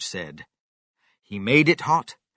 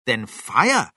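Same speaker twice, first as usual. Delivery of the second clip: plain reading voice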